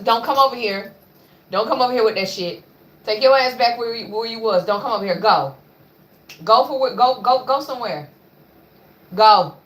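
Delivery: firm telling-off to a pushy pet; scolding the dog. Real, not acted. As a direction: shoo the dog away, annoyed.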